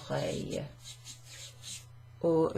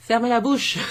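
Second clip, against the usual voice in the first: loud, higher playful order; mock command; 5 semitones higher, 8 dB louder than usual. Teacher jokily showing a phrase, mock command. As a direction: fire it off loudly, laughter just behind.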